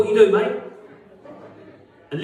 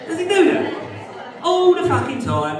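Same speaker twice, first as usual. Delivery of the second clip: much higher, punchy shout to the crowd; 11 semitones higher than usual. Real, not acted. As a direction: bellow it out in mock outrage. Comic asks crowd, shouting.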